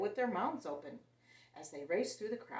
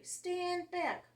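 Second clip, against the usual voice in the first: commanding; 11 semitones higher than usual. A narrator's reading. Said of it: "one of them said to the crowd".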